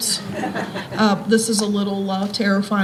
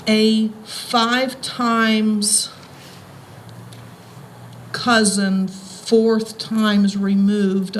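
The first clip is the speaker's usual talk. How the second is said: slow and deliberate; much slower than usual. Real, not acted. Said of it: "follow me here".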